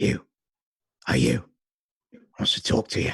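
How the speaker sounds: gruff, rough barking voice. Voicing someone calling from an alley to passing players: gruff barking voice. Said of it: "a gruff voice bark out at you".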